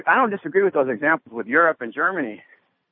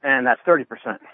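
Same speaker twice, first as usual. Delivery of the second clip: out of breath. Real, not acted. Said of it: "I'm working out here. I'm a little winded".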